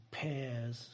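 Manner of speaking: pears, P said softly and unaspirated, like bears; pears, the P barely puffed; pears with a plain P. Shown as a demonstration. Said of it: "người ta đọc là pears".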